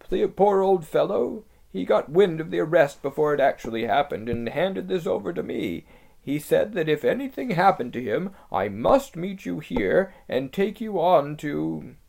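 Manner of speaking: lisping buck-toothed beaver. Acted. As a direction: share the sad news hurriedly. Beaver tells of Tumnus.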